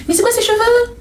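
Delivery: very high, mocking squeal; mock-shocked critic. Woman imitating a critic of her hair, high mock horror. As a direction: exaggerate the horror in a high put-on voice.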